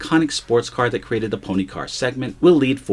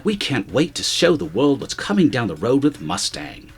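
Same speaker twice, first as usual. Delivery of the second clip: put-on playful British accent quoting the executive; native British accent; 3 semitones higher than usual. Host reads the executive's quote in a British accent. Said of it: "in his native accent".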